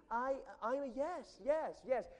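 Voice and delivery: eager yes. Real, not acted. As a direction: burst out saying yes to everything. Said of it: "a person that says yes to everything".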